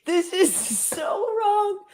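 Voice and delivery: speaking through real laughter, fast; can't stop laughing while talking. Real, not acted. Cohost cracking up at the abortion joke, laughing. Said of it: "I'm laughing at this".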